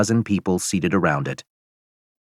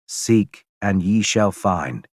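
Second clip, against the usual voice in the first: slow solemn password; slower than usual. Acted. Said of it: "says someone on the other side".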